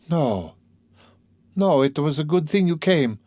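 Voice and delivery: high, insistent woman's protest; cried out. A narrator's reading. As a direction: contradict him earnestly, from the heart. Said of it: "cried Sonia".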